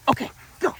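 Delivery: high, bright "go, go" cue; release cue. Shown as a demonstration. Trainer shows how she releases her dog to play, high. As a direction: send the dog off with an upbeat, high "go". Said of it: "And then I would go".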